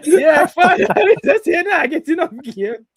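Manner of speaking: high, loud, helpless laughing retelling; laughing hard. Real, not acted. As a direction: crack up while quoting the line. Cracking up retelling the clip.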